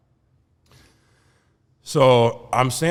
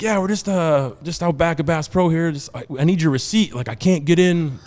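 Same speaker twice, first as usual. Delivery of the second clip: higher-pitched Florida redneck voice; 7 semitones higher, 3 dB louder than usual. Acted. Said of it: "my best impression of".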